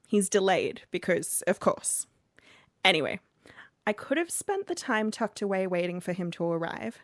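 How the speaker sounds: put-on reading the letter in a Scottish accent; a light Scottish lilt for the letter writer. Host reads a Scottish listener's letter in Scottish accent. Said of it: "As you could tell from my accent as I read that".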